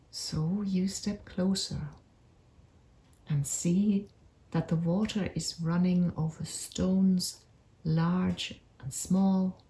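unhurried meditation voice with long pauses; guided meditation. Acted. Narrator leads listeners on a magical forest walk, guided meditation. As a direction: guide listeners gently through an imagined journey, leaving space between phrases.

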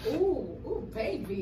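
laughing pained ooh; mouth burning from spicy food. Real, not acted. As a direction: gasp through the spice burn. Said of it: "my tongue feel like it's throbbing".

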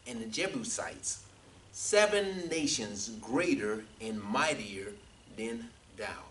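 deliberate, spaced-out Bible reading; measured pulpit reading, stretching the weighty phrases; scripture reading. Real, not acted. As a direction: list each people separately, pausing between names. Reads scripture aloud.

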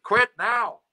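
high, loud imitation of a heckler; heckler's yell. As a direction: yell it out like a fan heckling between songs. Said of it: "two guys for the rest of the show between songs yelling".

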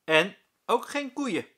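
high, loud, slowed teasing line; teasing teacher. A narrator's reading. Meester Jaap teases the class about cows, slow and loud. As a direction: drag it out as a joke.

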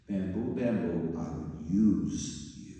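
lightly voiced master, slow and deliberate; a hint of a solemn master; slow master's call. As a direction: call the bamboo slowly, with weight. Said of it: "The master spoke".

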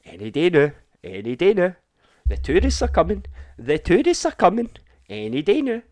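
high, loud mock chant; sing-song taunt of the waiting French. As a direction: vlogger imitating relaxed French officials, high loud mocking. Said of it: "They're like".

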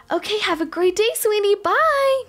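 high sing-song mommy farewell; sweet goodbye. Pretend. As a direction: coo a bye to a little one. Goodbye to her child.

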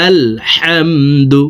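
"আলহামদু" slowly, its "হা" from mid-throat. Shown as a demonstration. Teacher showing where ha comes from, mid-throat "হা" in slow "আলহামদু". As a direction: breathe the "হা" of "আলহামদু" from the middle of the throat. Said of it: "হলকের মধ্যখান থেকে উচ্চারণ করব".

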